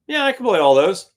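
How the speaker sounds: no problem at all; confident Billy. Retold or imitated. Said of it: "looks and says".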